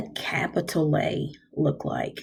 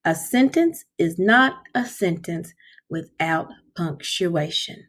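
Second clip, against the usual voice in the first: slow choral repeat. Shown as a demonstration. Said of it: "say that with me".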